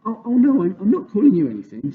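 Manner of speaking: put-on high, fast, flustered little girl; girl hurrying to soothe an offended giant, high and fast; anxious cry. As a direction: rush to take it back, alarmed. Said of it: "Sophie cried".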